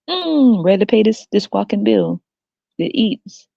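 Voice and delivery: high, put-on eagerness; mock eager mother. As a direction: imitate a blissfully keen mother-to-be. Acting smiling mother on the table.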